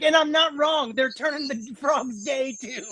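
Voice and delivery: high-pitched quote dissolving into giggles; can't get it out without laughing; breaking into laughter. Acted. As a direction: crack up while acting out a triumphant boast. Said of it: "I can't even say it without laughing".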